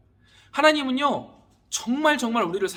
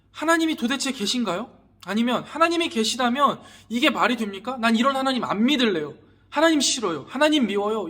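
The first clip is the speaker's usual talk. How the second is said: raised, louder voice complaining to God; mock angry accusation, pitched up; acted protest; 4 semitones higher, 6 dB louder than usual. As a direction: act out an indignant believer challenging God. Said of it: "우리가 만약에 하나님 앞에".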